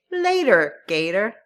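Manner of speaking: breezy slangy farewell; quick chirpy "Later, gator"; casual goodbye. Shown as a demonstration. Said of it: "We even say".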